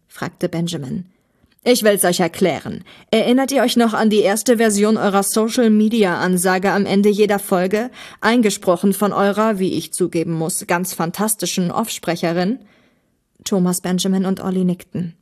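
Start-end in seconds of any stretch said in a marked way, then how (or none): 1.6-12.6 lightly voiced villain, bitterly complaining; aggrieved villain. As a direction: complain like a wronged arch-enemy.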